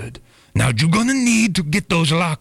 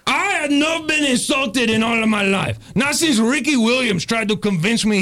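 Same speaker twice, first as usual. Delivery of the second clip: raised, offended gangster voice; indignant outburst; 4 semitones higher than usual. Acted. Tony takes offence at the bribe and raises his voice. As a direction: bark back at the insult.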